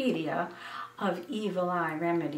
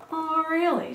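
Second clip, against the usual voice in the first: higher, knowing tease; a cryptic, knowing retort; mother answering with mysterious certainty; enigmatic; 9 semitones higher, 4 dB louder than usual. A narrator's reading. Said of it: "she said, enigmatically".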